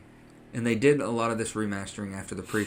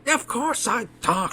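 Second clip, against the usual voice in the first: high, loud, drawn-out mock indignation; imitating snarky retort; 14 semitones higher, 6 dB louder, slower than usual. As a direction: play a snarky creature stating the obvious. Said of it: "he's like a snarky".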